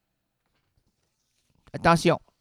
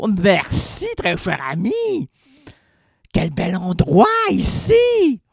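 mock posh thanks; 5 semitones higher, 5 dB louder, slower than usual. Over-polite thanks to waiter.

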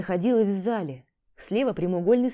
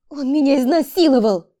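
громкий крик с надрывом, выше голос; выкрикнуть правду, срываясь; громко с надрывом; 7 semitones higher, 10 dB louder than usual. Acted. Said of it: "прозвучал громко с надрывом". (Тамара громко, с надрывом кричит правду)

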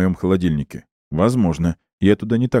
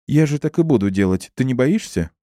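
playful teasing; 7 semitones higher than usual. A narrator's reading. Laughing woman teases him.

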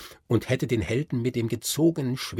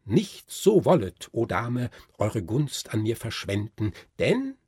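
solemnly; 3 dB louder than usual. Acted. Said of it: "sprach sehr feierlich".

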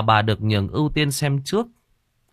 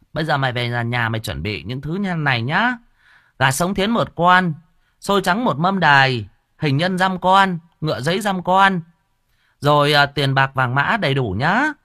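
medium listing offerings; 5 semitones higher, 3 dB louder than usual. Acted. Medium lists ritual offerings for the wife. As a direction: dictate the shopping list firmly.

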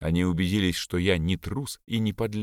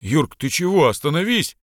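higher and louder, alarmed yell; shouting to stop; 7 semitones higher, 5 dB louder than usual. Acted. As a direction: call out to pull a friend off the fight. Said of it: "кричал Витя".

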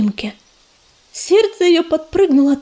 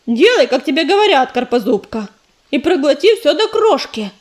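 stern. Acted. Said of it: "сурово прикрикнула".

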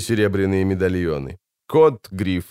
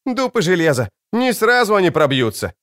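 put-on triumphant girl; 8 semitones higher than usual. Wounded girl exults at barred doors.

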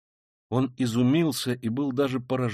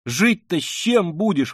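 high, loud, slowed appeal; distressed exclaiming; 5 semitones higher, 6 dB louder, slower than usual. Acted. Sonya challenging his refusal, exclaiming in distress. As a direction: cry out the questions insistently. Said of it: "восклицала Соня".

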